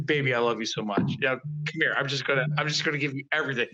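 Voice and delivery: lightly acted lovesick gushing, low and quick; drunk on love. Creator doting on someone, drunk on love. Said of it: "like, drunk on love".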